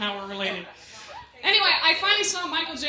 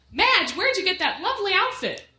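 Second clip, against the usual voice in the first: mock commercial; 5 semitones higher than usual. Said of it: "advertising that you're gonna hear".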